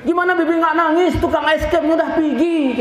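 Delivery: put-on high wailing kid complaint; hammed-up tearful shout, very high; crying child. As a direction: imitate a child bawling in protest. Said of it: "lebih kencang nangisnya".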